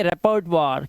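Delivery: "रेपर्टवार" ending in a clear waar; careful model of "रेपर्टवार", wa for oi. Shown as a demonstration. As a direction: sound out "रेपर्टवार" as re-pert-WAAR. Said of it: "वा हो गई".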